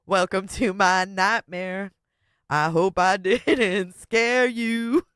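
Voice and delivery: slow mock-spooky welcome, breaking into laughs; lightly hammed-up shock-rock host; shock-rock singer voice. Streamer voicing the woman as a shock-rock singer, laughing. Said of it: "shock-rocker eyes".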